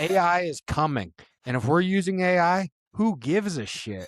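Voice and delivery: ranting like a fed-up fight promoter; mock Dana White rant. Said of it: "Dana White's quote was".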